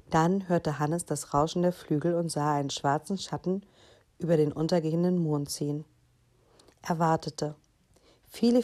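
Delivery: put-on lively children's story narration; story reading. A narrator's reading. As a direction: read it aloud like a bedtime story. Reads story aloud to children. (lebhaftes Vorlesen für Kinder)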